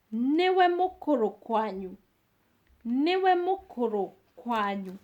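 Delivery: teacher sounds out Niwe mukuru kwanyu; model pronunciation. Shown as a demonstration. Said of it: "teacher models Kikuyu phrase".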